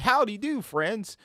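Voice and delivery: a hint of a chirpy office worker; lightly mock a cheerful coworker at the water cooler. Mocking Gambit talking like an office worker, lightly chipper. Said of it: "talking like some just office worker".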